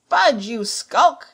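drawn-out angry shout; scornful cry. A narrator's reading. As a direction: throw the word back in contempt. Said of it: "cried Pew".

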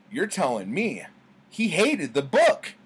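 a hammed-up incredulous owner; shocked disbelief. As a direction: squeal the punchline. Punchline, owner's shocked reply.

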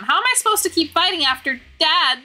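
put-on sulky boy pleading for his missing dad; whiny kid voice. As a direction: whine it like a hurt teenager. Theo, a whiny kid character.

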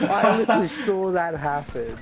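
raging gamer. Real, not acted. Loud disbelief at enemy.

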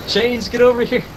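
high urgent shout; yelling across the room. Real, not acted. Calling downed teammate.

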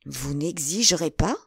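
"Vous n'exigerez pas" spaced out syllable by syllable, rising at the end; astonished, weighing each syllable. A narrator's reading. Buckingham answers Felton's demand, astonished, stressing every syllable of "Vous n'exigerez pas". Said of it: "regardant Felton avec étonnement".

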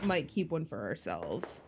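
whispering. Real, not acted. Sneaky plan to keep a copy.

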